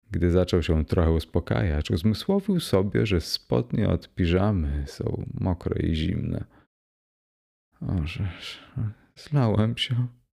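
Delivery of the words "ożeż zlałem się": words moaned out in a groan. Realising his pajama trousers are wet, he speaks, groaning. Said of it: "jęknął".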